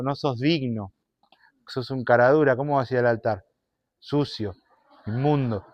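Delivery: accusing devil. Acted. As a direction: hiss it like the devil in your ear. El diablo acusa en voz baja. (el diablo acusando, grave y bajo)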